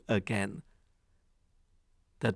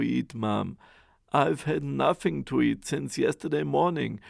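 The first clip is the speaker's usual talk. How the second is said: put-on pleading boy; 2 semitones higher, 6 dB louder than usual. Hungry Jack begs for food.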